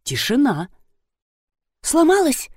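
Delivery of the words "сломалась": high, dismayed little question; upset. A narrator's reading. Nadezhda Mikhailovna, upset, asks if the drum broke. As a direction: sound let down that it broke. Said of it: "расстроилась Надежда Михайловна".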